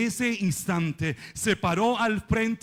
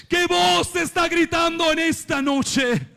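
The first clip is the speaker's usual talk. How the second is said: higher, forceful preacher's question; impassioned, lifted cry; raised challenge; 6 semitones higher, 4 dB louder than usual. Real, not acted. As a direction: throw the question out to the congregation.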